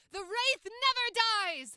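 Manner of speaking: full, loud projected shout, very high. Testing the microphone with a line, loud projected voice. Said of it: "let's move on to the projection".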